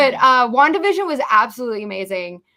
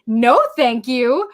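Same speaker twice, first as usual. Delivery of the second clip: indignant retort; 4 semitones higher than usual. Retold or imitated. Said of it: "I'm like".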